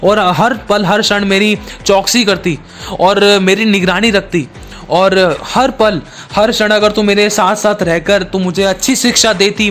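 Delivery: a son accusing his mother from the gallows; scolding blame. Acted. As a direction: pile the blame on her line after line. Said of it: "डांटते हुए, दोष लगाते हुए कहा".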